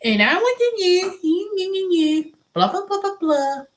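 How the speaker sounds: high, sing-song mock Indian accent; mocking Indian accent trailing into blah blah. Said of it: "They all got that".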